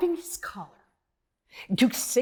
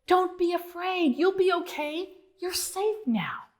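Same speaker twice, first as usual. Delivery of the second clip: reassuring; 6 semitones higher than usual. Acted. Comforting frightened frogs.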